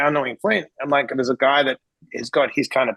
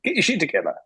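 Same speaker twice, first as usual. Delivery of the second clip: blunt dad to son; 2 semitones higher than usual. Retold or imitated. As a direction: push him hard to shape up, building up. Tough talk to son.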